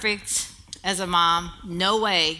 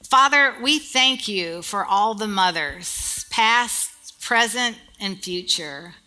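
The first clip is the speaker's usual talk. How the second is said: prayer. Acted. Pastor leads the congregation in a closing prayer, reverent. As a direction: pray over the mothers gently.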